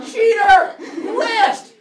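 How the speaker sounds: loud high laughing yell; yelled cheater. Shown as a demonstration. Teacher demonstrating to class catching a word list. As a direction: call out the cheat with playful outrage. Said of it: "I'm gonna yell".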